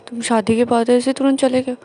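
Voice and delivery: loud, sulky scolding of the husband; whiny angry complaint. Retold or imitated. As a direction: pour out hurt anger, loudly. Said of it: "जानर बोलता है". (नाराज़ होकर ज़ोर से शिकायत)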